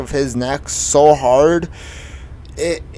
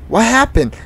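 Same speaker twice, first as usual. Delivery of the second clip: high, louder mock-startled question; 10 semitones higher, 5 dB louder than usual. Lunch lady comes out after the chair is thrown, startled. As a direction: imitate an alarmed lunch lady, pitch jumping up.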